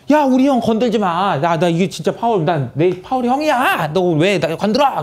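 hammed-up loyal little brother; protective protest. Acts out reporter defending Powell.

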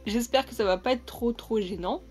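numb half-paralysed mouth, slight lisp; numb from the dentist. Real, not acted. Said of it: "je zezote en fait".

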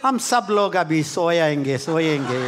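fast, then drops on सोएंगे; mock sleepy Hindi call. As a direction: imitate a drowsy worship leader. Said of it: "you know how people will listen?".

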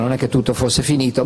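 usual speaking voice

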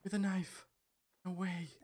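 loud, high-pitched astonishment; real excited shout of disbelief; amazed disbelief. Real, not acted. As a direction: exclaim it, stunned by your own success. Amazed at own kill.

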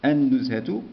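النزهة with a silent l and doubled n; sun-letter reading. Shown as a demonstration. Teacher classing the word as sun-letter, lam silent. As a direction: drop the l in النزهة and press on the n. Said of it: "شمسية".

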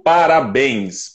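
parabéns spoken very slowly, each syllable clear; slow demo word. Shown as a demonstration. Speaker showing how easy parabéns is. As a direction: drag out parabéns. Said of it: "por exemplo".

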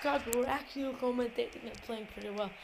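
very soft, low commentary; hushed. Real, not acted. Gamer playing on while mom wants to sleep, hushed. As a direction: keep your voice right down for a sleeper.

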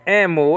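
"emu" pushed a little with extra weight; "emu" stressed as the emphatic word. Shown as a demonstration. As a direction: lean on "emu" to show it is emphatic. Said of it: "and that's emphatic".

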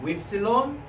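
teacher sounds out "epsilon" for the class; Greek vowel demo. Shown as a demonstration. Teacher models the vowel for students to repeat.

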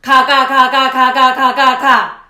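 rapid-fire loud 가; machine-gun the 가 syllables. Shown as a demonstration. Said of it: "조금 더 빠르게 해볼까요".

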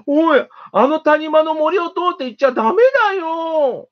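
high squeaky mouse voice, urgent; squeaky mouse warning. A narrator's reading. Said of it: "キーキー言いました".

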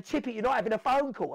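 dismissive officer. Retold or imitated.

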